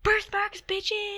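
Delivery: gleeful high-pitched crowing; triumphant high shout. Real, not acted. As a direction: shout it like you just won. Triumphant gloating exclamation.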